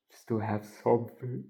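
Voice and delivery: talking through a yawn. Real, not acted. Student recapping a semester essay to camera, yawning mid-sentence. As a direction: let a yawn swallow the last word. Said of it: "I'm yawning right now so fucking much".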